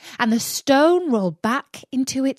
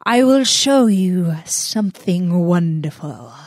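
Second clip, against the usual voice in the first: magician; 2 semitones lower, 5 dB louder than usual. Acted. Magician tempts Aladdin.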